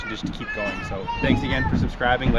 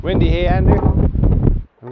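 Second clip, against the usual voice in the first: shouting over wind; 6 semitones higher, 10 dB louder, much slower than usual. Real, not acted.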